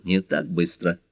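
quiet restraining word; murmured caution. A narrator's reading. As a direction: say it softly under your breath. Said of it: "шепнул".

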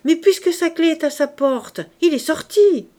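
high, loud protest; calling back. A narrator's reading. Daughter argues with her father from afar, calling back.

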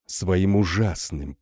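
usual speaking voice

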